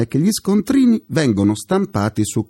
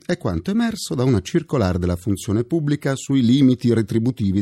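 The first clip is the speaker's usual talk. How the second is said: ordinary delivery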